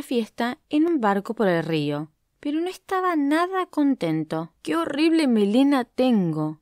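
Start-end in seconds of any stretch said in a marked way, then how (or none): 4.6-6.6 whiny lament, pitch raised; the lion grumbling over his mane; complaining. Acted. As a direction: moan about the ugly mane. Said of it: "se quejó".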